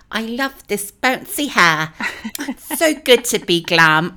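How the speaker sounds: high, slow, breathless mock gush; mock Dorit gushing. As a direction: ham up a vain gush over her own hair. Mocking Dorit's glam line.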